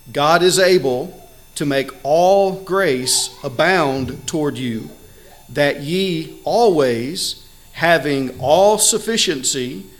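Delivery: slow, deliberate reading of the verse; reading verse eight to the congregation, slow and weighty; scripture reading. Acted. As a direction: lay out each phrase of scripture slowly. Reads Second Corinthians nine aloud.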